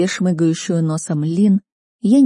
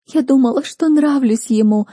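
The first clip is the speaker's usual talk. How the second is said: higher, louder teary whine; whiny sniffle; 8 semitones higher, 4 dB louder than usual. A narrator's reading. Sister whining to Kristel about the boy, tearful. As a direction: whine it like a wounded little sister. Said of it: "продолжала гнусавить сестрица".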